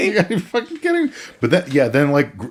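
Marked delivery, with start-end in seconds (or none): 0.1-1.1 exasperated. Retold or imitated. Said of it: "he's like".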